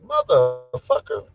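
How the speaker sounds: slow, drawn-out expletive, close to own pitch; lightly voiced character, stretching the word; Braxton. Streamer trying out a stand-in character, lightly voiced impression. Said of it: "pop up Braxton right now".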